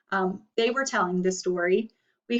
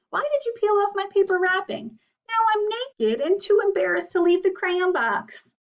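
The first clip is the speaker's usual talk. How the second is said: embarrassed peach crayon; 7 semitones higher than usual. A narrator's reading. Peach crayon begs Duncan for clothes, higher and panicky. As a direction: plead for clothes, mortified and breathless.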